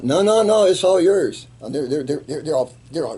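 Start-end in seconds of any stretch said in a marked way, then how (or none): 0.0-1.5 much higher, louder laughing-off refusal; eager refusal. Retold or imitated. His men gleefully refusing to share the fruit, high and loud.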